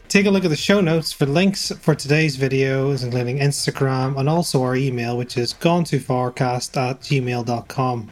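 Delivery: host reading the plugs; podcast announcement. Acted. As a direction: run through the plugs like an ad. Reading show notes promo.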